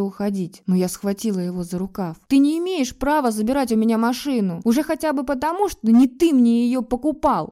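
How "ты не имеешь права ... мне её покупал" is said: higher and louder, angry outburst; finally furious. A narrator's reading. Wife grabbing husband's sleeve, finally furious. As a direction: let the anger break through at last. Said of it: "окончательно разозлилась я".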